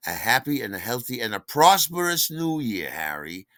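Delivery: lightly put-on New York well-wisher; sweet New York dialect. Customer Sherry wishing the delivery man a happy new year, sweet New York accent. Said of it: "very sweet with their New York dialects".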